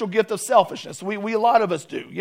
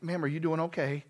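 gentle; 3 semitones lower, 7 dB quieter than usual. Retold or imitated. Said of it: "he was so gentle with her".

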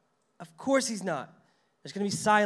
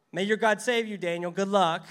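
mocking, loud and higher, a sneering send-off; sarcastic; 3 semitones higher, 8 dB louder than usual. Shown as a demonstration. Preacher mocking a sarcastic king's farewell. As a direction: say it like you hope he fails. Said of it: "Darius is being sarcastic".

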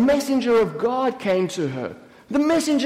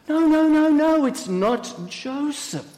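high, hurried no's slowing into insistence; urgent denial; 5 semitones higher than usual. Acted. Mary denying to her sister that Joseph is responsible, urgent denial.

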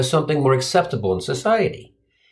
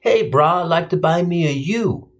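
Samoan dude. Retold or imitated. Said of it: "this huge Samoan dude was solving the puzzle".

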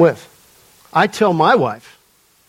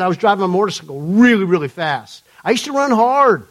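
imitated Atlanta man telling his testimony; attempted Atlanta accent. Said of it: "he's telling the story in his accent".

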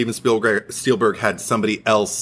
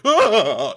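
cartoonish gasp; 9 semitones higher than usual. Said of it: "cartoonish take".

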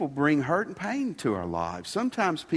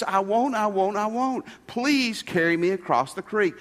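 higher-pitched, mildly begging scorpion; pleading; 5 semitones higher than usual. Acted. Scorpion begging the frog for a ride across the creek, pleading. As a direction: plead insistently, as the scorpion would. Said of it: "scorpion pleaded and he begged".

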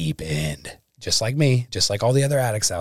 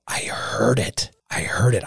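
whispering; 2 semitones higher, slower than usual. Real, not acted. Recalling hearing an inner voice.

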